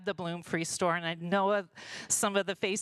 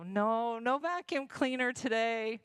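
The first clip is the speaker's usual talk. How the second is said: politely sweet, a touch higher; smiling reply; 4 semitones higher than usual. Retold or imitated. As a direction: smile it off kindly. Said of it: "But I smile and I go".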